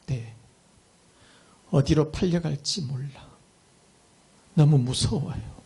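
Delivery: mildly acted halting fear; faltering, scared. Slave girl answering the old gentleman, faltering in mild fear. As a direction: falter between phrases like a frightened child, understated. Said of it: "더듬으면서 하는 말".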